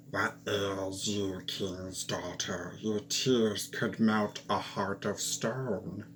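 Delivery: lightly voiced kindly frog, drawn out. Frog speaks from the well.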